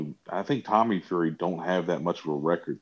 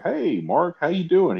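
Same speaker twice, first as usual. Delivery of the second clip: higher, louder mock hello; acted friendly greeting; 11 semitones higher, 5 dB louder than usual. Visitor walking up to the Zuckerberg estate, high hearty mock greeting. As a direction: call out a hearty hello in a skit.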